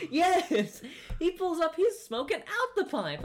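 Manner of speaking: high, loud, slow telling broken by laughter; laughing retelling. Real, not acted. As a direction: barely get it out for laughing. Still laughing telling story.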